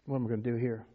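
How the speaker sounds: low, hushed thinking to himself; worried inner thought. Retold or imitated. Church member privately wondering what to do, low worried aside. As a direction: murmur a private worry, low. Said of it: "I'm thinking".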